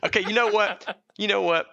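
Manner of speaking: mock-offended but cracking up; laughing protest. Real, not acted. Protesting the cohost's joke about sales, laughing.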